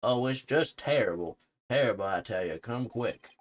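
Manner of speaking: high, loud character-voice wail; mock alarm. Filch urging them to come quick, alarmed. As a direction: raise the alarm in hammed-up distress.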